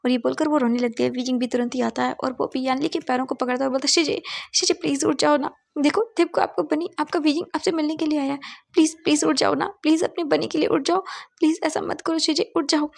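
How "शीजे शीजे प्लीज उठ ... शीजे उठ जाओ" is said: mildly acted crying plea, pitched higher; tearful pleading. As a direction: beg him to wake up, a touch tearful. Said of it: "और वो भी रोने लगते हैं". (हल्की रोती हुई, ऊँची आवाज़ में गुहार)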